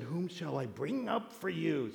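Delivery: hushed, low spooky medium; soft, low put-on séance voice; the medium's voice. Medium asks Saul whom to raise, in hushed spooky voice. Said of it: "gotta use the voice".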